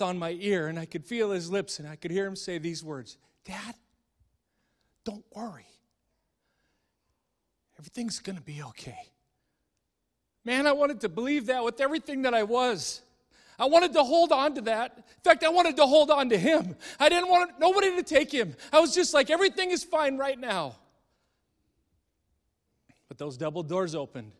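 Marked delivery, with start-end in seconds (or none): 3.4-9.1 gentle comfort. Acted. Son's quiet comfort to dad. 10.4-20.8 higher and much louder, rising to a cry; impassioned preaching. Acted. Preacher's emotional climax.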